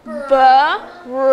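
"B-R-A-V-E" said letter by letter, each one separate; teacher spelling brave aloud for the class; sounding out letters. Shown as a demonstration. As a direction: spell it out piece by piece for the kids. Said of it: "Let's sound that out".

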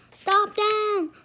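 loud, high, urgent command; shouted order. A narrator's reading. King Arthur turning to his men, shouting. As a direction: order them stopped at once.

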